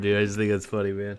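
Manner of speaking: speaking through laughter. Joking about a singer, the speaker breaks up, laughing while talking. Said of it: "I'm laughing hard".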